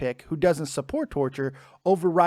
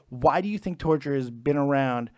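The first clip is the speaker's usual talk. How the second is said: imitating a matter-of-fact delivery, pitch dropping at the end; 3 semitones lower than usual. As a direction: state it coolly as settled fact, voice sinking. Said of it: "so matter-of-factly".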